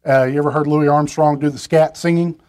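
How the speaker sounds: ordinary delivery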